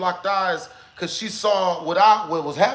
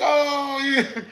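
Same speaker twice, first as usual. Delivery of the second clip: mocking "yeah"; 4 semitones higher, much slower than usual. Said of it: "making fun of me low-key".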